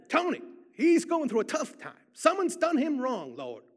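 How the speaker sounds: loud, high sing-song prayer in imitated African-American voice. Trooper prays over a stranger in Einstein Bagel, sing-song imitation. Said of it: "in his sing-song African-American voice".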